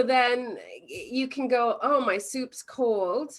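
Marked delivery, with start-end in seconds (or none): 1.8-3.3 slow, drawn-out whining complaint; mock grumble about the soup; hammed-up irritated customer; ticked-off whine. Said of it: "get ticked off and go".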